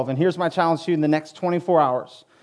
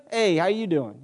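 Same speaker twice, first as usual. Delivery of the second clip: New York style. Acted. Preacher acts out returning someone's greeting, in New York style. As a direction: answer back in a light New York accent. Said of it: "I gotta go New York style".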